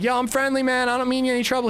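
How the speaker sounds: high, loud friendly call. Retold or imitated. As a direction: shout it across the water. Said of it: "I'm yelling".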